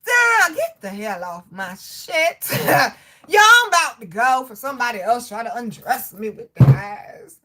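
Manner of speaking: laughing loudly through the words. Real, not acted. Reading a rude comment, laughing hard. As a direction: crack up while you talk.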